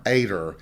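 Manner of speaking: Ader as AY-der. Shown as a demonstration. Census spelling shown, Southern Ader. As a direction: say Ader the way the census taker heard it. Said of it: "spelled it A D E R".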